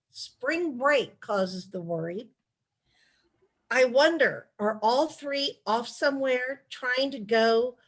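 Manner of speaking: measured, expressive letter reading; unhurried storyteller reading a letter; letter read aloud. Acted. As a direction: read the letter out to an audience, phrase by phrase.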